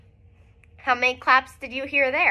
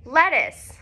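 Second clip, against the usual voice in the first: excited reveal; 3 semitones higher, 3 dB louder than usual. Shown as a demonstration. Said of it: "Let's find out what".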